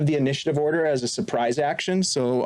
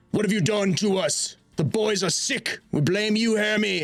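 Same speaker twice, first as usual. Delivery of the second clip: higher-pitched angry accusation; angry shouting man; 7 semitones higher than usual. Acted. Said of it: "begin to hear shouting".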